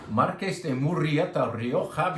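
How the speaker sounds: Marques de Murrieta Rioja with strongly trilled Spanish R's; heavy rolled r. Shown as a demonstration. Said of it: "I just like to roll the R's".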